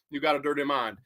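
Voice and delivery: low, lightly voiced croon of a famous singer; a hint of the singer, dropped low; impression of a singer. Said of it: "a famous singer would say".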